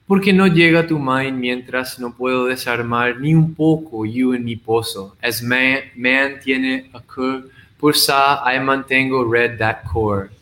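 measured poetry reading with unhurried pauses; poem recitation. Acted. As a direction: read it like a poem to a small audience. Recites his multilingual poem.

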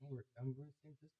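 distant, off-mic voice; speaking from across the room; far from mic. Real, not acted. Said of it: "you're really far from the mic".

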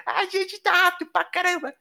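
high voice trailing far off; fading into distance. Acted. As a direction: sound like you're riding away. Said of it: "A voz dele tá ficando longe!". (voz sumindo ao longe)

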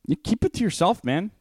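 high, mock-annoyed scolding of a noisy eater; mock scolding friend. To the friend smacking lips, a high mock scold.

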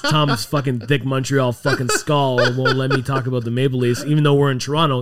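heated, rising rant; worked-up swearing; angry rant. Real, not acted. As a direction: vent about the co-host's team. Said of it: "You're angry".

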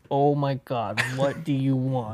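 slow, fed-up sigh of a greeting; exasperated friend. Retold or imitated. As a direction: groan it as if the call is a burden. Imitating annoyed friend again.

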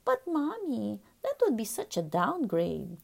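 put-on whiny child voice. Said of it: "answered in his whiny voice".

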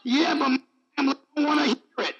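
lightly voiced quick objection; congregant's excuse. Congregant objecting to reading aloud at home, lightly mimicked.

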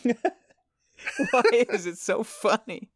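squeaky laugh through words; can barely speak for laughing; laughing helplessly. Real, not acted. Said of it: "I don't know".

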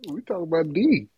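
playful conspiratorial whisper. Pretend. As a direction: whisper back the answer. Answers the joke whisper.

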